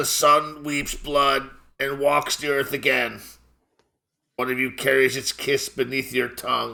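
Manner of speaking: creaky voice, cracking and breaking throughout. Narrating the scene, speak the figure's words in a cracking, creaking voice. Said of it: "in a cracking, creaking voice".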